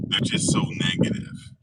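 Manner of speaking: high, breathy mock whine; imitating the lady, high and airy; mocking her. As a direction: mimic her prissy complaint. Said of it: "'Cause she just said it".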